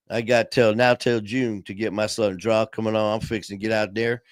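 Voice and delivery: lightly put-on Southern drawl. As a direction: talk with a hint of Southern twang. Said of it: "gonna come out Southern".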